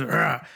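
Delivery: low, short monster "argh"; monster roar. Retold or imitated. Sketch monster under a blanket reacting, low mock roar. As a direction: imitate a monster's growl in passing. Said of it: "The monster goes".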